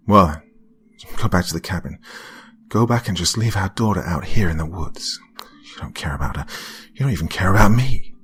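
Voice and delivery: bitter accusing wife; angry. Acted. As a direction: hurl the blame at him. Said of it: "the angry tone".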